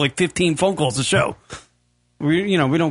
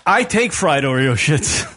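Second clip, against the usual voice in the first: laughing; 2 semitones lower, slower than usual. Real, not acted. Mocking repeat of a silly phrase.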